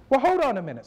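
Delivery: lightly voiced older lady caught off guard; phone call from an old church lady, amazed; church lady, surprised.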